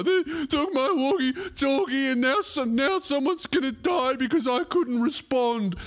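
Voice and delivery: mock a kid's tragic complaint; upset toddler. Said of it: "the kid's best day ... worst day ever".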